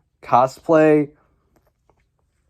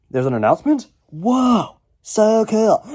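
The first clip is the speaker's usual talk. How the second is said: mock surprise; 8 semitones higher, 4 dB louder than usual. Mock surprise at own announcement.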